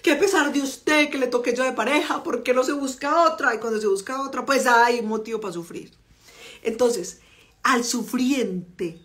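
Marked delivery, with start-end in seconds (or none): 0.0-3.5 mildly mocking sufferer's lament, a little higher; a hint of a whiny, self-pitying partner; martyr voice. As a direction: sigh it out as the poor wronged partner. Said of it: "la sufriente".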